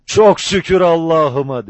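loud, high, relieved outburst; high-pitched joyful exclaiming; cry of joy. A narrator's reading. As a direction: shout your thanks out with joy. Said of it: "sevinç çığlığı attı".

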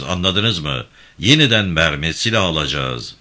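a firm, lightly voiced gang chief giving orders; steady commanding tone, barely apart from the narration; commanding leader. Voices band leader İbrahim Bey.

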